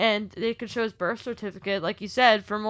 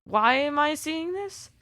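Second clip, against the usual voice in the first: disgusted; 5 semitones higher, slower than usual. Real, not acted. Disgusted by gross photo.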